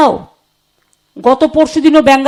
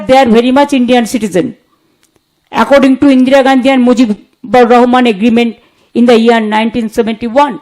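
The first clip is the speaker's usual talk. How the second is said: slow and deliberate; 2 semitones lower, much slower than usual. Real, not acted. Stressing the legal point in English.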